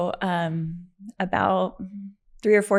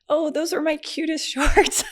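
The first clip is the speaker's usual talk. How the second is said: high-pitched laughing lament; hammed-up dismay breaking into laughter; mock lament; 9 semitones higher, 3 dB louder than usual. Patient sees favorite shorts ripped off, high laughing mock lament.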